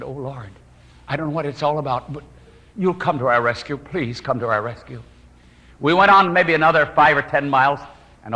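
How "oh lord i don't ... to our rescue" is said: hushed, desperate prayer to God; whispered prayer. Retold or imitated. Husband prays silently for rescue, softer and hushed. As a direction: pray under your breath so she won't hear. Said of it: "and with my heart".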